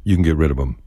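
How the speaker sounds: "'em" said as "um" with no th; dropped th in them. Shown as a demonstration. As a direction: drop the th: "get rid of 'em". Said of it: "dispense with the T H and them".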